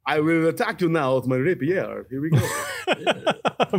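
lightly voiced lizard creature, drawn out at the end. Player declares a rapier attack in character, lizard voice. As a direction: talk like a lizard announcing an attack.

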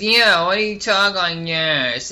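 mocking imitation. Girl repeating her question to him, mocking imitation. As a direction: drag it out, making fun of someone's voice. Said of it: "She goes".

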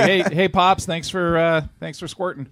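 lightly acting out the adult kids' thanks; mock grown kid. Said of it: "it's like".

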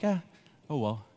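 low, soft, untroubled aside; calm shrug. Retold or imitated. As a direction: let it go, unbothered, as a retold reaction. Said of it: "why am I calm in that moment?".

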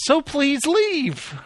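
drawn-out goofy intercom close; hammed-up store announcer; mock announcer. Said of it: "I'll never forget that".

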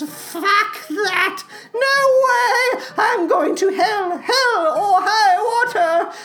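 creepy creature voice, swinging from hushed to indignant; Salad Fingers. Acted. Creature comforted by coffee, rejecting heaven, eerie and overwrought. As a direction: croon the ad, then protest theatrically.

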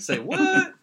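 very high, loud comic yelp; mock disbelief. Joking about heroes killing a buddy, mock astonished. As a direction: squeal it in hammed-up shock. Playful shock at shocking scene.

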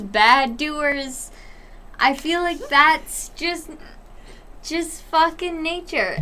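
talking through hiccups. Real, not acted. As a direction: hiccup interrupting the sentence. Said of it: "I hiccuped during fucking".

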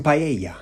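PAELLA said the Spanish way; Spanish vowels and y-sound in PAELLA; proper Spanish pronunciation. Shown as a demonstration. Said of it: "I'll say a Spanish word properly".

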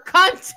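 "cunt" ending on a firm, clear T; hard T. Shown as a demonstration. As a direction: punch the final T of "cunt". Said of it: "say it with a hard T".

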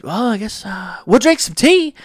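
mock old lady. Old customer's reply voiced.

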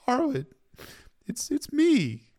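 put-on high, tearful little-girl plea; slow, halting, as if through tears; weeping. A narrator's reading. Arya weeping as she pleads with Harwin, tearful. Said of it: "weeping like a baby".

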